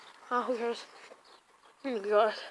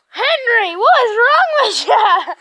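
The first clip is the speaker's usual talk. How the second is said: laughing; 5 semitones higher, 6 dB louder than usual. Real, not acted. Laughing at the dog.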